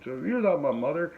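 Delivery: mock a petulant comeback; retold childish retort. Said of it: "Like that".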